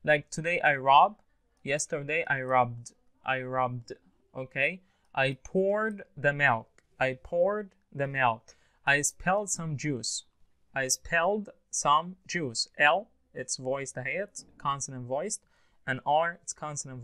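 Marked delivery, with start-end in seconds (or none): 1.6-3.9 "robbed" as one syllable ending in voiced "bd". Shown as a demonstration. Teacher giving a rule two example, robbed ending in D. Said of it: "Pronounce D". 5.1-12.7 slow "poured" and "spelled", each with a voiced final D. Shown as a demonstration. Teacher modelling rule two sentences, slow with D endings. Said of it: "Pronounce D".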